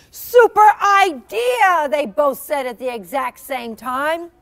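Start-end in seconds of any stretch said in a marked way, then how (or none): 0.1-1.9 excited. Acted. Both friends agree eagerly.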